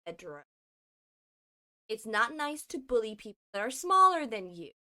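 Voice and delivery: low, soft scolding; reproving. Acted. Joe scolding Pedro for bullying smaller people, quietly reproving. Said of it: "don't have to fucking say it like that".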